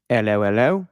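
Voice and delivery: nonsense Cockney patter; mock Cockney accent. Host imitating Butcher from the show, mock Cockney gibberish. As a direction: garble it in a hammy Cockney. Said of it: "He uses a Cockney accent".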